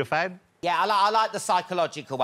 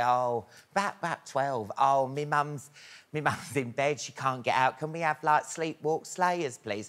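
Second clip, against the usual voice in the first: put-on kid's fib; 4 semitones lower, 5 dB quieter, slower than usual.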